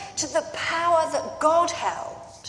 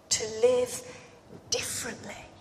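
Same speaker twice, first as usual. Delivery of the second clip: hushed whisper; 3 semitones lower, 6 dB quieter than usual. Real, not acted. Preacher closing his point to the congregation, whispered. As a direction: breathe the word out as a soft whisper.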